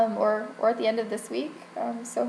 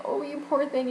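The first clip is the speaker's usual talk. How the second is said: higher-pitched cooing imitation of a kindly pharmacist; sweet sympathy; 5 semitones higher than usual. Pharmacist repeatedly pitying a crying customer, sweetly sympathetic. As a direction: imitate gentle pity, lifted in pitch. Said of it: "like, this sweet woman".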